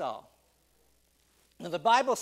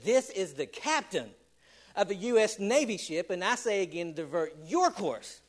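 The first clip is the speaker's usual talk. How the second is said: mild mock anger. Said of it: "he got a little bit mad".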